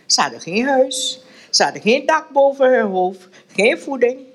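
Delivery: reading a novel aloud to the group, voicing the characters; steady read-aloud narration with mild character voices; story reading. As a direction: tell it like a storyteller, lightly acting each figure.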